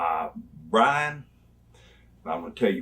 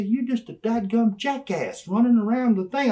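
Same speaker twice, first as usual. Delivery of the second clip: mocking insult; 10 semitones higher than usual. Insulting Brian.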